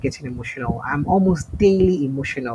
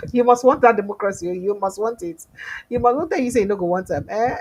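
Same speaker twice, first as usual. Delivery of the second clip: teasing insistence; 5 semitones higher, 4 dB louder than usual. Real, not acted. Host teasing viewer about democracy.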